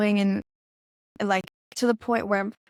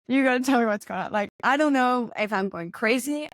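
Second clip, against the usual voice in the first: higher, insistent retold plea; urgent demand; 4 semitones higher than usual. Caller confronting the guy after a vision, urgent. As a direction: press for an answer, voice raised in pitch.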